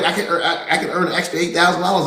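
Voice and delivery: giddy quote broken by laughter; laughing excitedly. Retold or imitated. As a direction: laugh through the words like you just got rich. Loan officer gleeful about earnings.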